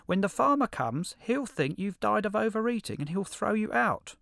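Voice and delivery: very high, loud little critter voice; high squeaky hedgehog. Acted. Hedgehog voice held.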